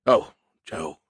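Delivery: low, tender consolation; soothing tone. A narrator's reading. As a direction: gently comfort a disappointed friend. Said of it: "he said in a soothing tone".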